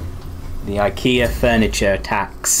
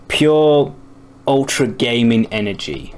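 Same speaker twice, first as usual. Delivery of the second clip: excited; slower than usual. Acted. Hyping up ultra gaming energy.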